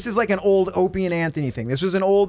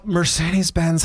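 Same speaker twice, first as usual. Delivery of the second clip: sultry DJ read. Retold or imitated. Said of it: "she's all".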